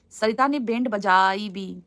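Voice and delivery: drawn-out "band बजाई", word by word; slow puzzled rereading. Real, not acted. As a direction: sound out "band बजाई भी" slowly. Rereads comment, puzzling over wording.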